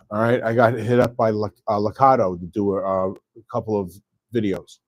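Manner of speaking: talking through hiccups; words broken by hiccups. Real, not acted. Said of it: "Oh, excuse me, my hiccups".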